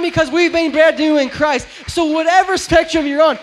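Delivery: shout. Real, not acted. Preacher shouting to congregation.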